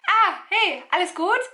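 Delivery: high-pitched casual hello with a rising question; imitated German greeting. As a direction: imitate a quick street check-in. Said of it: "They'll be like".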